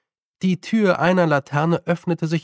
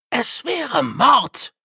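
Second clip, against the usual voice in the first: blurted horror; 9 semitones higher, much slower than usual. A narrator's reading. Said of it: "entfuhr es Grütze".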